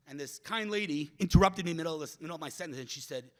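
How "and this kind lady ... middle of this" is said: ordinary talk, nothing marked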